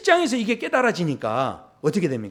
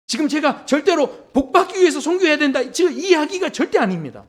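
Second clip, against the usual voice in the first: high-pitched, insistent denial; preacher's urgent disclaimer; emphatic preaching; 9 semitones higher, 3 dB louder than usual. Real, not acted. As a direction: deny it fervently from the pulpit.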